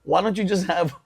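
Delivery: slow, prissy question; lightly voiced scold over one glass; mock girl's nagging. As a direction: mimic a girl scolding him. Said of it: "when girls are like".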